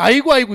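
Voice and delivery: loud mock mourning cry of aigo; imitating the neighbor's loud funeral wailing; imitated wailing. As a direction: wail aigo like a grieving neighbor. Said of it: "이러고 있어".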